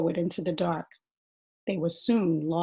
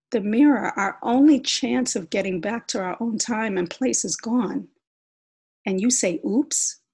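loud, exasperated telling-off; angry scolding; 3 semitones higher, 6 dB louder than usual. Acted. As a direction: scold him for saying oops. Sister scolds brother.

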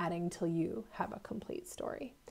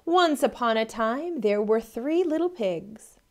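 storybook opening; 2 semitones higher, 4 dB louder than usual. Shown as a demonstration. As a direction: open the tale grandly for kids. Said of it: "We know fairy tales like to begin that way".

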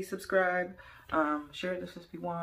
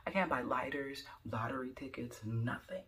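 whispered list; 3 semitones lower, 5 dB quieter than usual. Real, not acted. Complaining about getting carded, whispered. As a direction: whisper the list under breath.

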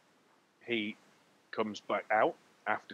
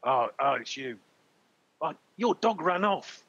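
barman voice; 4 semitones higher, 4 dB louder than usual. Acted. Barman answers the halfling.

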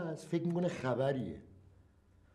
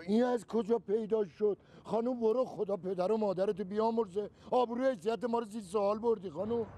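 exasperated higher protest; 4 semitones higher than usual. Acted. Husband shooing away the woman.

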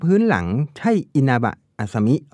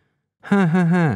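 slow easy laugh; 6 semitones higher, much slower than usual. A narrator's reading. Man laughs off her apology.

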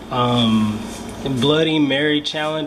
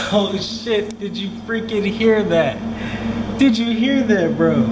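panicked; 5 semitones higher than usual. Real, not acted. Heard a noise, panicking.

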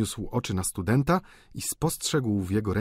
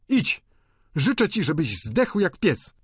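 high, raised angry curse; oburzona gospodyni; 8 semitones higher, 4 dB louder than usual. A narrator's reading. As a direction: send him off indignantly. Gospodyni przeklina starego Goriota. (wysoki, gniewny głos gospodyni)

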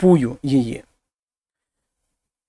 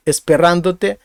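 esperándote stressed on RÁN; stress third from end. Shown as a demonstration. Teacher shows learners how esperándote should sound, stress on RÁN. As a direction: hit RÁN in "esperándote", leaving "dote" unstressed. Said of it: "як воно повинно звучати".

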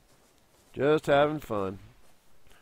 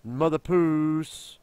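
slow drawn-out; 3 semitones higher, much slower than usual. Shown as a demonstration. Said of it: "drawn-out naming".

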